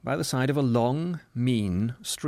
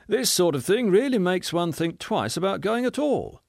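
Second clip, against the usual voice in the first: higher, pointed remark meant to be overheard; a snob grumbling higher for all to hear; unnecessarily loud; 8 semitones higher than usual. Acted. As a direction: say it loudly so the stranger hears. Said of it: "rather unnecessarily loudly".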